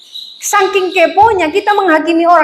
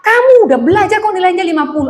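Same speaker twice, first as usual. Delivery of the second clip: higher, quick mock scolding; mildly acted rapid telling-off; retold angry mother; 4 semitones higher, faster than usual. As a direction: imitate a mother going off at her child. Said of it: "Dia ngamuk-ngamuk".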